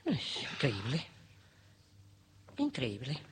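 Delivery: low, hushed incredulity; muttered disbelief. Acted. Woman left fuming at her neighbour, muttered disbelief. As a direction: mutter it to yourself, stunned.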